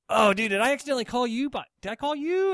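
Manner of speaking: high, fast baffled question; confused. Retold or imitated. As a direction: rush it out puzzled. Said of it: "and I'm like".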